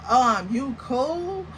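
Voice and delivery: slow, drawn-out wary question; wary check-in. Retold or imitated. Woman checks on the fidgeting man, wary and drawn-out. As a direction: stretch out a hesitant little check-in.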